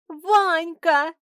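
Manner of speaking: high, gasped cry of recognition; astonished gasp. A narrator's reading. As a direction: call out the name in high astonishment. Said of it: "ахнула она". (изумлённо ахнуть)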